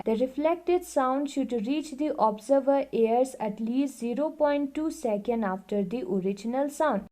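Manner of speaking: reading the book aloud, very slowly and evenly; slow classroom read-aloud; slow textbook reading. Acted. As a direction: dictate it word by word to the class. Reads textbook line aloud.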